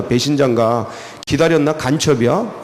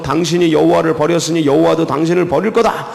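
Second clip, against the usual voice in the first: mildly scolding pronouncement; scolding warning; 2 semitones higher than usual. Acted. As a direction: deliver a stern warning, only lightly raised. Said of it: "야단치면서".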